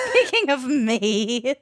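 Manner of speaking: repeating it through giggles; laughing. Real, not acted. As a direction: laugh while you echo it. Teasing repeat of intro line.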